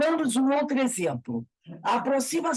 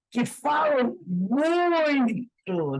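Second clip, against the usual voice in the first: drawn out; 3 semitones higher, much slower than usual. Acted. Emphasizing talkative advisers.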